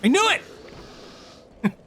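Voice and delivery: high, very slow stretched cry; drawn-out gloat. Real, not acted. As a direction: stretch it out in triumph.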